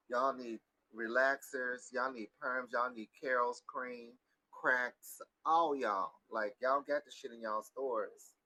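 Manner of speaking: loud, drawn-out scolding tirade; emphatic, fed-up telling-off; exasperated rant. Retold or imitated. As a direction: lay into all of them, raising your voice. Ranting at men about hair.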